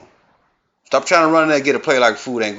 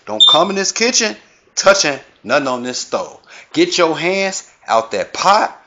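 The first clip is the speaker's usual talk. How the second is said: a hint of a stern granny, higher pitched; 3 semitones higher than usual. Grandma warning folks off her kitchen, stern granny voice. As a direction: scold like grandma guarding her stove. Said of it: "speaking for Granny, through Granny voice".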